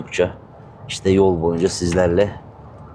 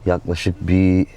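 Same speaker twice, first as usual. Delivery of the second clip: talking while chewing gum; 2 semitones lower than usual. Real, not acted. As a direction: chew gum as you talk. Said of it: "Bu arada sakız çiğniyorum".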